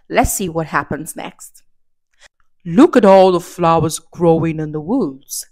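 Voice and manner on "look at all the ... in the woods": a lightly voiced sly, coaxing wolf; crafty wolf. The crafty wolf luring Little Red off the path, sly coaxing. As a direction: coax her off the path. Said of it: "said the crafty wolf".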